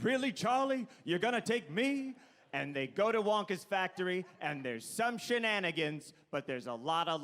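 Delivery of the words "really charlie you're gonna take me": lightly acted, higher-pitched astonished grandfather; Grandpa Joe. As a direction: ask it in touched disbelief, pitched up. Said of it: "And Grandpa Joe says".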